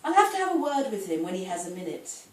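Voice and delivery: measured dramatic monologue as a put-upon wife; wry comic poem performed aloud; poetry reading. Acted. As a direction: read it as a wife airing her grievances, stressing key words. Reads Missus God poem aloud.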